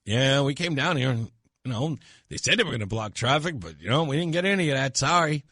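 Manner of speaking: mildly deflated reporter sign-off; a hint of a let-down live report; disappointed reporter voice. Reporter apologizing to anchor Susan, mildly disappointed. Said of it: "absolutely disappointed voice".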